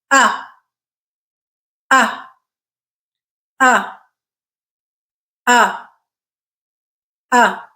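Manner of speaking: each ah as a clear relaxed central stressed vowel, slowly spaced; model vowel. Shown as a demonstration. Teacher models the vowel for students to repeat, clear ah. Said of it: "I'm gonna say it, and then you repeat it".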